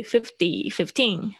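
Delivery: slow "fifty" front-stressed, then "fifteen" end-stressed; contrasting stress. Shown as a demonstration. Teacher telling students not to blur them, contrasted stress. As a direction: set "FIF-ty" against "fif-TEEN". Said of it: "所以你们讲的时候，".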